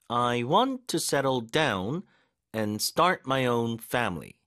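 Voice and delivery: slow, "want" punched, pause after "down"; two careful chunks, stressing "want" and "start"; stress drill. Shown as a demonstration. Teacher letting learners feel the force, "want" and "start" stressed. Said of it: "이렇게 힘줄 곳 다 느껴지셨을 거고".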